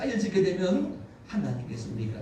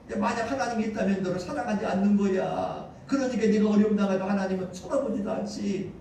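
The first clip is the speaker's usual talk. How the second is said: raised, insistent tempter's voice; imitated devil's taunt; 5 semitones higher, 4 dB louder than usual. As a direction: needle the listener as the devil, lightly acted. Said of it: "마귀는 자꾸 와서 찾아와 말합니다". (마귀가 다그치는 말투 흉내)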